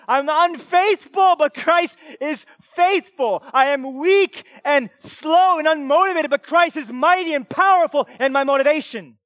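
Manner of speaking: loud, high, slow-hammered declarations; impassioned preaching. Real, not acted. Preacher declaring to the church that he needs Jesus, full-force preaching. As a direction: proclaim it at full force, drawing out the key words.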